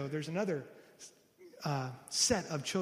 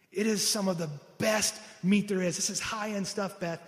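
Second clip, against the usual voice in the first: excited; 3 semitones higher, 4 dB louder than usual. Retold or imitated. Husband thrilled about the meat.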